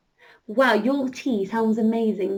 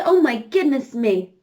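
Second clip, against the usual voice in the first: Oh, my goodness me a little louder, delighted; excited exclaim; 5 dB louder than usual. Acted. Scarlett delighted by the view, exclaiming. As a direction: let it burst out in delight. Flying over sailors at sea.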